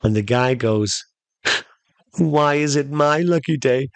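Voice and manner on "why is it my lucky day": mildly happy, higher-pitched question; a touch of happy wonder. Acted. Castaway asking the genie about luck, mildly happy. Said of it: "Like, happy and everything".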